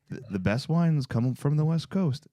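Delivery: a lightly voiced Trey giving wine advice; Trey impression. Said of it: "That's my Trey impression".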